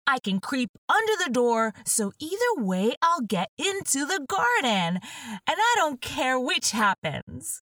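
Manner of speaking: Alice talking herself into it; young Alice reasoning. Acted.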